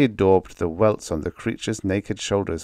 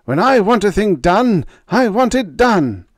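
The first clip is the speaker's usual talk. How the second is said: loud, much higher raging yell; furious snarl; 13 semitones higher, 8 dB louder than usual. A narrator's reading. Scientist beating his slave, raging loud yell. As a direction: bring the cane down on every word. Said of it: "Renzo snarled".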